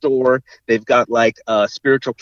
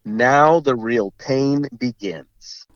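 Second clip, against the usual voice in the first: slow dramatic read; much slower than usual. Retold or imitated. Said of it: "the text comes up on screen".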